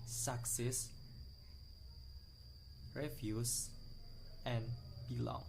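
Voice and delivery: success, reviews, belong with weight on the last syllable; second-syllable stress. Shown as a demonstration. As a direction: stress suc-CESS, re-VIEWS, be-LONG. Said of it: "pressure on the second syllables".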